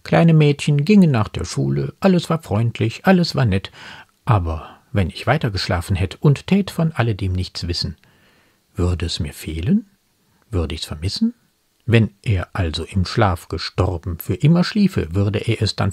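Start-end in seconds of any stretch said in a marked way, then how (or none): 0.0-11.3 animated, then pensive poem quotation; poem quoted in commentary. Acted. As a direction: quote brightly, then ease down for the questions.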